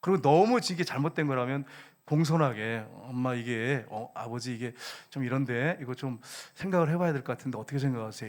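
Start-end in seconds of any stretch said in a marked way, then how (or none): 3.0-8.3 lower, softer respectful appeal; gently and hesitantly raise it with a parent; polite, deferential. Shown as a demonstration. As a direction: model a courteous, tentative request. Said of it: "이렇게 해가지고 공손하게 하라는 거죠".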